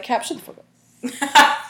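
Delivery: high, loud, drawn-out fake telling-off; mock angry outburst. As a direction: pretend you've had enough and yell it slowly. Imagined telling off Captain America.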